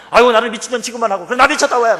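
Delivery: high, loud furious wife retort; angry wife. Retold or imitated. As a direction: shriek it like the wounded wife.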